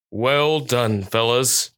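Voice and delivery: even, understated praise; steady voice. A narrator's reading. Police dog praising his fellow officers, steady and understated. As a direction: praise them steadily, without lifting the voice. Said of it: "his voice steady".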